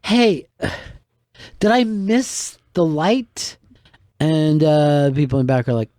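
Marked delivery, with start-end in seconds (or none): 0.0-3.6 puzzled onstage. Retold or imitated. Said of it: "I'm like".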